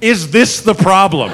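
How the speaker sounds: slow, spaced "Is this the problem?"; wary, drawn-out question. Retold or imitated. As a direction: ask it slowly, as of a wild animal. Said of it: "Like she's a wild animal".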